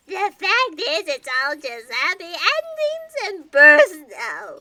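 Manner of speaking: tearful rant. Acted. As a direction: push the words out through sobs. Despair shredding facts.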